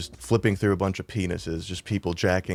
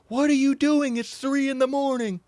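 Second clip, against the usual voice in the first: much higher, shrill put-on parent voice; scolding parent. Parents bursting in at three am, scolding the boys, put-on voice. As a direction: play the annoyed parent at 3am.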